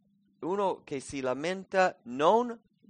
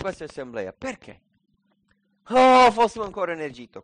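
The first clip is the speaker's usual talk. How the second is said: loud, raised-pitch lament; acted complaining; 4 semitones higher, 6 dB louder than usual. Hungry Israelites blaming Moses and Aaron, hammed-up complaint. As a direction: wail like aggrieved grumblers, hammed-up. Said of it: "Quello è lamentarci".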